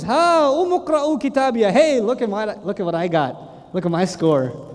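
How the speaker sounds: mildly hammed-up showing off; happy boasting. Man with book in right hand showing his score, happy. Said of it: "the guy is so happy".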